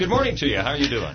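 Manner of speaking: hollow, boxed-in sound; like talking from inside a barrel. Real, not acted. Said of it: "I'm not sure why I sound like I'm in a barrel".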